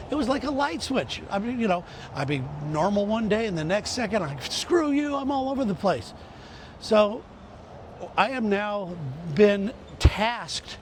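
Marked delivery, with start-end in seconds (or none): 4.4-6.1 mock flare-up. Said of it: "I'd just fly off the handle".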